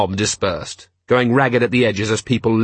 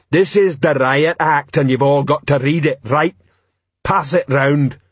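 raised-pitch troll address; troll bellow; 3 semitones higher than usual. Acted. Troll handing the act to rioters, mild bellow. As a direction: order the crowd about as a troll. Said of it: "he bellowed".

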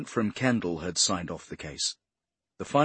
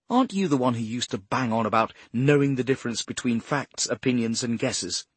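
snapping; 3 semitones higher than usual. Acted. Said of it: "she snapped".

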